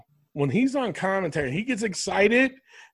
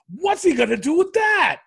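mocking commentator shout; 11 semitones higher than usual. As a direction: ham up a clueless commentator. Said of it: "He goes".

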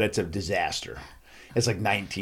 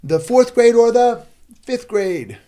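high, loud, drawn-out team call; rally both sides of the room; slow, showman-style announcement; contest host call; 13 semitones higher, 8 dB louder, slower than usual. Retold or imitated. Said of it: "normally now I say".

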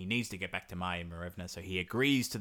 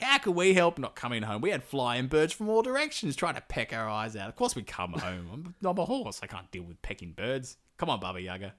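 exasperated mares; 2 semitones higher than usual. Retold or imitated. Mares answer the angry witch.

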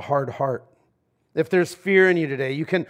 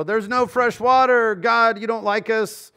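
complaining Israelites; 5 semitones higher than usual. Retold or imitated. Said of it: "where the people go".

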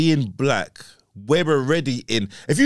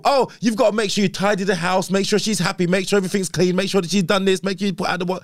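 lightly voiced nagging partner, a bit higher; nagging girlfriend voice; 6 semitones higher than usual. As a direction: reel off the chores like a naggy partner. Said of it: "it's laughable".

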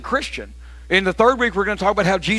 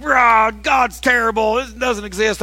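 mock combative rant; 4 semitones higher, slower than usual. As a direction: ham up an angry God-hater, slowed right down. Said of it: "I don't mean like a combative atheist".

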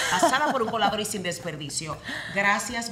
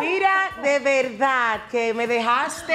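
amazed; 4 semitones higher, 5 dB louder, much slower than usual. Real, not acted. Guest overwhelmed by intro.

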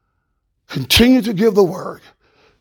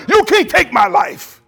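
high, slow and firm, every word weighed; slow down and face Pilate squarely; Jesus to Pilate, slow and unshakable; Jesus defying Pilate; 8 semitones higher, slower than usual. Retold or imitated. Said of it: "Jesus got in front of Pilate".

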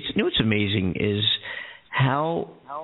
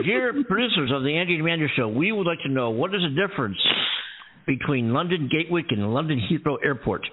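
announcer reading letter; 5 semitones higher than usual. Pretend. Reads mock listener letter.

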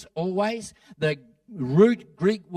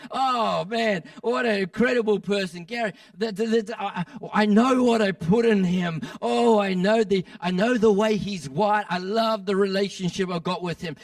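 higher, lightly acted burst of delight; delighted God; 4 semitones higher than usual. God delighting in a man he made, mildly excited. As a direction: voice God gushing proudly over someone.

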